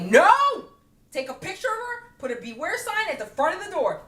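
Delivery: high mocking alarm; high-pitched mock warning; mocking the staff. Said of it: "they're like".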